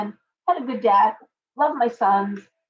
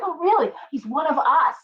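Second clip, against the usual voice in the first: high pitched thrilled reaction; excited surprise; 6 semitones higher than usual. Retold or imitated. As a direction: react as if delighted by the news. Friend's news, acted reaction.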